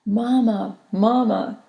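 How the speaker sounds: calling out. A narrator's reading. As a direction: call out to her mother across the room. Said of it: "Kachin called out to me".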